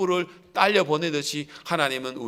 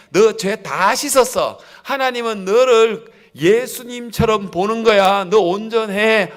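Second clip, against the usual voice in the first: slow, louder, each word pressed home; emphatic Spirit's assurance; 4 semitones higher, 5 dB louder than usual. Acted. The Holy Spirit assuring believers, slow and emphatic. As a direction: declare it with weight, word by word. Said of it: "하고 성령이 우리들에게 가르쳐 주실".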